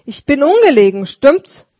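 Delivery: put-on old street sweeper, moved; grateful old sweeper. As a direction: thank him humbly but heartily. Sweeper voiced.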